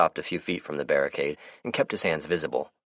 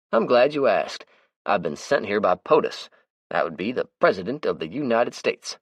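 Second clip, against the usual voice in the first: higher, brighter character voice; Melvin's voice; 5 semitones higher, 4 dB louder than usual. Acted. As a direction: play the chatty, easygoing Melvin. Melvin voices his lines.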